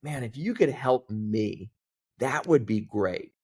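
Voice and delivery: slowed down and leaned on "Man, if you could help me"; slow, deliberate repeat. Retold or imitated. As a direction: spell the request out slowly, earnestly. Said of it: "I added that last part of".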